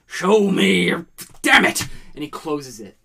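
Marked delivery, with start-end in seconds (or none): 0.1-0.9 higher, much louder cry of frustration; frustrated shout. Acted. Captain pleads with his compass. 1.4-1.9 high, very loud outburst; furious curse. Acted. Captain snaps at compass.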